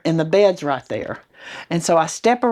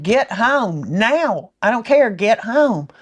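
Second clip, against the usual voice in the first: insistent order; 5 semitones higher, slower than usual. Retold or imitated. Retelling ordering husband home urgently.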